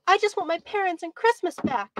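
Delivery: put-on high, tearful child voice; lightly acted whimper of a little boy; mock sobbing. A narrator's reading. Boy grabs detective's arms, mock sobbing. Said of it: "began to sob".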